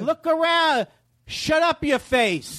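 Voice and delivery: mock scolding. Quoting the song's scolding lines.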